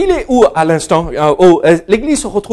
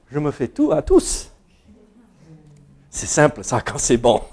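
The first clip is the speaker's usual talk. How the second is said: laughing through "Je me fais tout à tous"; 5 semitones lower, 7 dB quieter than usual. Real, not acted. Pastor joking to the church about eating pigeon, laughing. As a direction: chuckle the words out at his own story.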